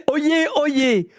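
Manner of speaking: proclamation solennelle et lente; crieur public. Pretend. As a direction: annonce pompeuse comme un héraut. Annonce solennelle de la blague. (crieur public solennel)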